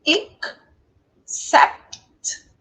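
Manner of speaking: "Ik", pause, "Sept"; teacher splitting the word into "Ik" and "Sept"; two-syllable demo. Shown as a demonstration. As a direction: separate brief "Ik" from a firm "Sept" with final t. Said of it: "Na verdade, tem só dois".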